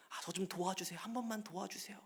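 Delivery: soft, weak mock pleading; helpless child. Believer begging other people for help, helpless pleading. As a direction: beg feebly like a powerless child, voice shrunk. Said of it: "막 힘없는 아이처럼".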